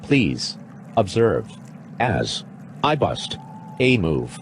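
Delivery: robot voice. Acted. Actor plays robot.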